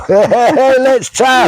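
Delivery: high, excited call through laughter; laughing cheer. Real, not acted. Calling the challenge name to passing village supporters, laughing cheer.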